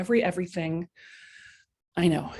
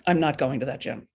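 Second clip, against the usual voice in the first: calling bullshit; 4 semitones lower than usual. Shown as a demonstration. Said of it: "Just go".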